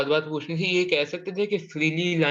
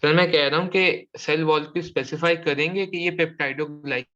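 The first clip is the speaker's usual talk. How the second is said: slower, firmer repeat of a question; speaking up; slower than usual. Real, not acted. Student repeats question for teacher, speaking up. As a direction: repeat it slowly so the teacher can hear. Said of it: "जोर से बोलो".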